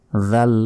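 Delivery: জাল with a voiced "th" as in this; tongue-out dhal. Shown as a demonstration. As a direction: put the tongue between the teeth for জাল. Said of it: "জিহ্বা বের করে".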